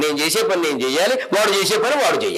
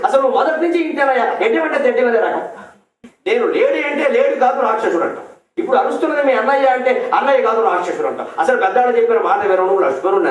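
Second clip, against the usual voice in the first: angry scolding; 4 semitones higher than usual. Retold or imitated. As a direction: tear into him like an angry wife. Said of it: "ఓ రే పెట్టింది". (కోపంగా అరుస్తూ తిట్టడం)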